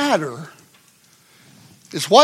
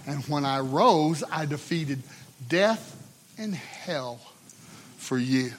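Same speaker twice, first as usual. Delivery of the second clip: calming voice. Retold or imitated. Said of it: "very still and very calming".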